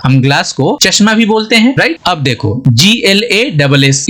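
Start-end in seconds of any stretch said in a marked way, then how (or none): 2.7-4.1 slow letter-by-letter spelling; teacher spelling out a word for the class; spelled out. Shown as a demonstration. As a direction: spell each letter slowly and clearly. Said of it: "इसको क्या बोलेंगे".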